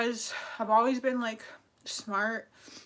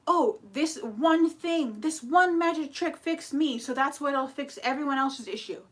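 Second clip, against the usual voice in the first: mock know-it-all; 3 semitones higher than usual. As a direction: drag it out like a smug guru. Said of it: "they think they're like".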